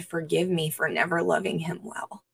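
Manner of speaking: breathy whispered confession, retelling tears; soft unvoiced remorse; tearful hush. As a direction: let the words drop to a near-whisper, as if still moved. Cried bitter tears of repentance.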